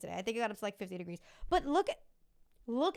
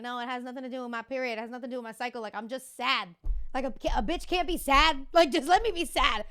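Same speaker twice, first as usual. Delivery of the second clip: mock exasperated rant; 6 dB louder than usual. Venting to her husband about being sad, building to a loud laughing rant. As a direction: vent at him like he missed the point.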